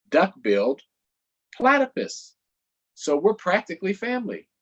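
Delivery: high, eager cartoon donkey; perky donkey pitching for votes. Donkey asking kids for votes, high and eager.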